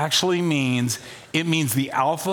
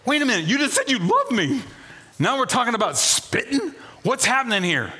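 mock protest; 8 semitones higher than usual.

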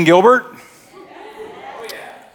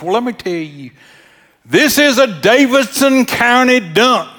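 imitating the dump guard; 7 semitones higher than usual. Dump guard explains the dump to a driver, imitated high officious voice. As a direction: play a little dump guard laying down the rules. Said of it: "She talked like that".

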